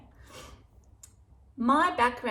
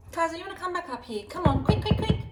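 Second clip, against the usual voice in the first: calling the dog; 7 semitones higher, 5 dB louder, faster than usual. Real, not acted. Calling the dog back over.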